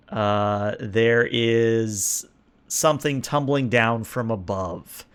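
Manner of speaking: slow, suspenseful scene setting; storyteller leading players toward a surprise; game master narration. Acted. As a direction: draw out the openings, building suspense.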